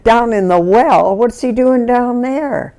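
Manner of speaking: rising, incredulous retold questions; retold disbelief. Neighbour answering the panicked mother, incredulous. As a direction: act out baffled alarm, pitch climbing.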